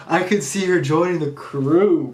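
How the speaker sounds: dreamy delight at the idea; excited hope. Real, not acted.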